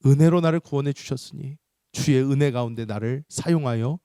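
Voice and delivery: firm, pleading petition; earnest prayer. Shown as a demonstration. Preacher models a believer's prayer, earnest plea. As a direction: pray aloud with measured earnestness.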